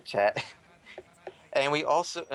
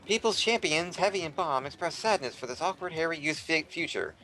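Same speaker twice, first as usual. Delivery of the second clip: news bulletin read; 3 semitones higher than usual. Acted. Reads joke news bulletin.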